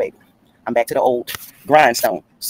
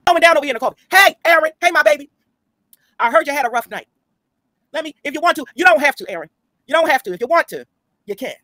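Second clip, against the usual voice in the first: much higher teasing voice; sing-song greeting; 11 semitones higher than usual. Real, not acted. Greeting Aaron on chat, cooing in a much higher sing-song. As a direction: coo at Aaron, playful and high.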